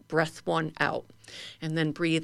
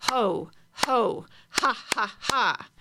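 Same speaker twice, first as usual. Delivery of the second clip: guttural ho ho ha ha; 2 semitones higher, much slower than usual. Shown as a demonstration. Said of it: "I want to hear that very guttural".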